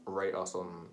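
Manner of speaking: half-hearted sign-off; unenthusiastic. Real, not acted. Podcaster asking listeners to subscribe, unenthusiastic. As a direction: read the outro with little enthusiasm. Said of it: "You sound so enthusiastic about it".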